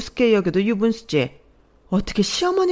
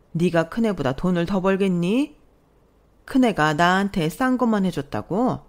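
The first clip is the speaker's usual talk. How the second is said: louder, lecturing scold; indignant mother-in-law; 2 semitones higher, 3 dB louder than usual. Acted. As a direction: rebuke her pride sharply. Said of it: "얼굴이 벌개지셔서 말씀하셨어요". (얼굴 붉힌 시어머니가 꾸짖듯)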